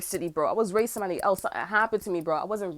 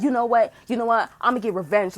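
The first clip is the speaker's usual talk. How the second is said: drug addict voice; 3 semitones higher, 5 dB louder than usual. Retold or imitated. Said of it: "it sound like a fucking drug addict".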